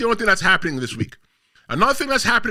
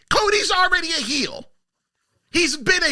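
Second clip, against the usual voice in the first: shouting; 7 semitones higher than usual. Real, not acted. Heated wrestling debate.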